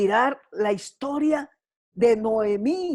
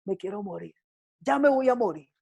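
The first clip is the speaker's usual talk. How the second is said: softer, hushed despairing plea; 3 semitones lower, 4 dB quieter than usual. Retold or imitated. Mother in the desert begging God, hushed despair. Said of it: "está llorando y le dice".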